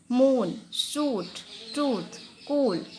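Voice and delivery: मून, शूट, ट्रूथ, कूल said very slowly, the oo held long; long oo demo. Shown as a demonstration. Teacher showing children the big oo sound, very slowly. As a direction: stretch every oo in मून and कूल. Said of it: "बड़ा ऊ का sound आ रहा है".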